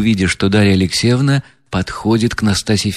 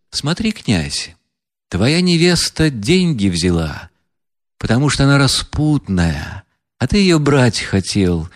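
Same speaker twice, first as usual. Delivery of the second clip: higher, contemptuous woman's voice; scornful heroine; 4 semitones higher than usual. Acted. Настасья Филипповна презрительно смеётся над деньгами. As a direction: sneer at the money and the crowd. Reader voices Nastasya Filippovna.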